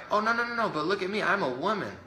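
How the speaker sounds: high, mock-defensive politician voice, lightly hammed; sarcastic high impression of a politician. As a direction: whine it up high like a smug official. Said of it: "they're like".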